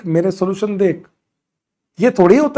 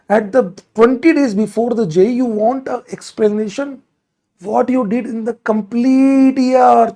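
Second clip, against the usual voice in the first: slow sarcastic English; 3 semitones higher, much slower than usual. Acted. Teacher mocking a spammer.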